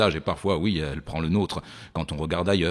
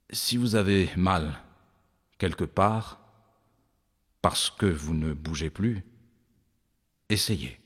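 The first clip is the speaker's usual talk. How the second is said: voix de méditation lente, posée; voix de méditation guidée. Acted. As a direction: guider doucement, avec de longues pauses. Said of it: "la voix demande". (voix qui guide une méditation, lentement)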